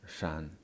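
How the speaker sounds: shan, closed on a clear N; Mandarin N ending. Shown as a demonstration. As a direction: say shan with the tongue-tip N at the end. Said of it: "the N sound".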